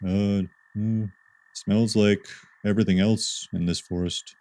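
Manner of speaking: a hint of a dopey dog; lightly dopey and quiet; slack jawed dopey voice. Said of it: "I'm giving Rowdy a dopey voice".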